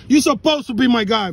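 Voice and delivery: loud angry shout at the officer; yelling at the cop in real anger; screaming. Real, not acted. Man yelling during a traffic stop, loud and angry. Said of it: "Please stop screaming".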